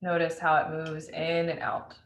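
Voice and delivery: unhurried meditation guide with long pauses; spacious, measured breath-awareness instructions; guided meditation. Acted. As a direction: lead listeners gently into noticing the breath.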